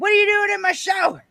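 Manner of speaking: mock angry, furious outburst, pitched very high. Retelling how the speaker's dad reacted to finding the speaker in his shower, imitating dad's anger. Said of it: "He was very angry".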